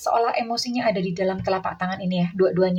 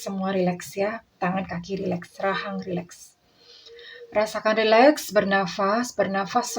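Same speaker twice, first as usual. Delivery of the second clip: guided relaxation. Shown as a demonstration. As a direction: lead them gently into calm.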